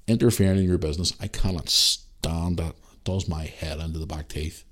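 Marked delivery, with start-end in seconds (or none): none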